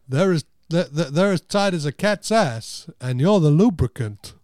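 imitated halting, emphatic movie line; Christopher Walken. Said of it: "he says about someone".

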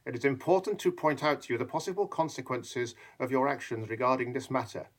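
a lightly voiced petty official; mild mock officious drone; jobsworth. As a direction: read it like a smug bureaucrat. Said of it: "the little Jobsworth who says".

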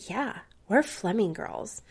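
a hint of a small child echoing mom; cute little girl voice. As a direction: daughter repeating her mother in a lightly done cute voice. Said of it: "she said it in her cute Lizzie voice".

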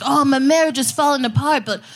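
whiny worried husband, mocked; half-hearted panicky dude voice; mocking straight dude. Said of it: "dudes are walking around like".

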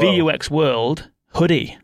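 slow, showy prize announcement; game-show style gift reveal; mock grand reveal. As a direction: unveil the prize name by name, drawn out.

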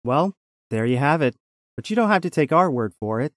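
lively promo read; upbeat commercial announcer. Acted. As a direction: sell it like a radio sponsor spot. Reads the sponsor's promo.

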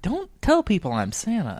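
mock dad, pitched well up; imitated exasperated dad. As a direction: do a dad pleading his case. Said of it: "My dad had to go be like".

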